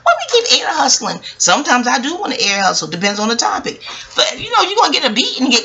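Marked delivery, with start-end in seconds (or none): 0.0-1.2 put-on higher childlike voice, lightly done; young self. A hint of a kid telling friends to stay in the back room. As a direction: talk like a seven-year-old persuading friends. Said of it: "I'm like".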